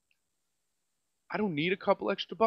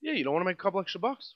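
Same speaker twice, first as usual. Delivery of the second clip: mocking manager; 4 dB quieter, much faster than usual. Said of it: "But, um".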